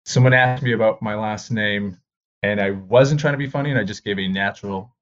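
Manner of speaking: ordinary talk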